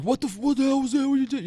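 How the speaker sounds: high-pitched exasperated protest; mock yelling. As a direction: imitate a coach squawking at the ref. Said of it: "like, kinda yelling".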